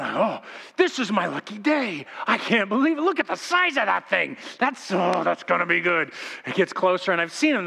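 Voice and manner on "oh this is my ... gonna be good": hammed-up awestruck fish, voice climbing; thrilled fish. Preacher voices the fish seeing the fly return, mock amazement. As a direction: gush like a fish who can't believe its luck. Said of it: "and he's going".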